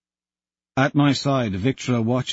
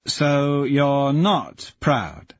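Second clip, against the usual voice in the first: mocking; 4 semitones higher, much slower than usual. Jackal mocking father.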